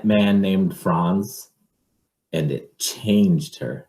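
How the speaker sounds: slow, dramatic read-aloud; picture book reading. Acted. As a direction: draw it out for the child.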